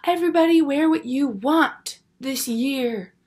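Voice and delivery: lightly voiced friend on the mic, slow and lofty; mock speechy friend. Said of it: "She goes".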